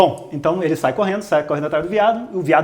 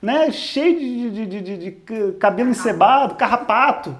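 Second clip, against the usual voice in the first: whiny complaint; 5 semitones higher than usual. Retold or imitated. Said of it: "Aí Citar falou assim".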